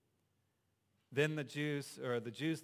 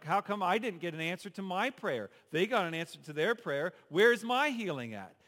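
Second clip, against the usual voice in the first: mock complaining churchgoer, building higher and louder; whiny complainer; 4 semitones higher, 6 dB louder than usual. Preacher mimicking a member whose prayer went unanswered, mock whine. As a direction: whine it up to a peak at healing.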